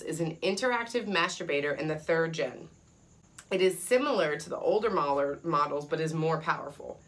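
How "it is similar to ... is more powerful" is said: talking between sips; words around a sip of soda; while sipping a drink. Real, not acted. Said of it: "Sorry, I'm drinking".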